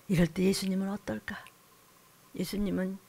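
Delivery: soft unvoiced whisper; hushed question. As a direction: whisper it as if to yourself. 조용히 묻는 속삭임. (혼잣말처럼 속삭이기)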